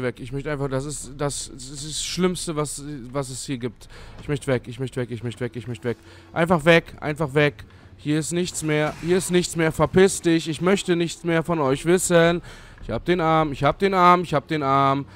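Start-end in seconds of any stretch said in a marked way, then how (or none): 6.3-15.0 panisch laut. Real, not acted. Panicked escape from monster.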